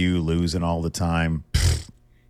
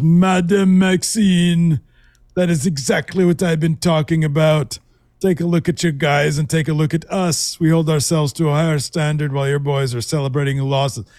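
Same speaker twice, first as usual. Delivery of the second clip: mock Kaiser voice; 8 semitones higher than usual. Retelling Kaiser's boast to Maxine, pompous mock voice. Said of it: "He says".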